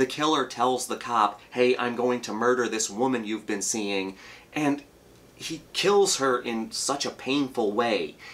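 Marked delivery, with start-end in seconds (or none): none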